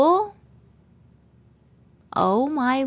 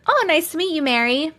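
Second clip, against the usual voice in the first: higher-pitched mock pleasantry; pitched-up social greeting; acted polite reply; 5 semitones higher than usual. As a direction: play pleased to meet someone. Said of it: "And I'm like".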